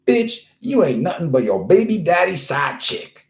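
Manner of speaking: high, punchy put-down; sassy quote. Acted. Host delivering the quote of the week, sassy put-down. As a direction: throw it out as a sassy insult.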